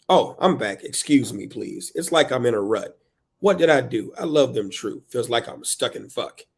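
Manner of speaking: dramatic verse, punched openings; frustrated poem reading. Acted. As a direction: read it like a parent stuck in a rut. Performs book's frustrated parent.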